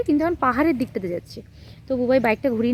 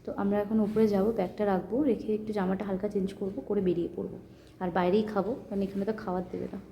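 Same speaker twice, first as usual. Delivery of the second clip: much softer, keeping it hushed; 2 semitones lower, 9 dB quieter than usual. Real, not acted. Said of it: "এত ম্যান ম্যান করে কথা বলছি". (আস্তে, চাপা গলায়)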